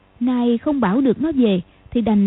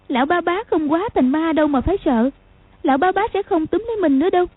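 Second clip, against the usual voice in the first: put-on child talking to herself; 6 semitones higher, faster than usual. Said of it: "thì tự nhủ".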